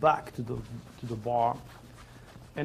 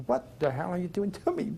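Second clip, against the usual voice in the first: retold swearing, a bit higher, mild anger; 5 semitones higher than usual. Recalling swearing at the stranger in his head, mild anger. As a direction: snap it at him like a half-hearted curse. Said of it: "I was swearing at him".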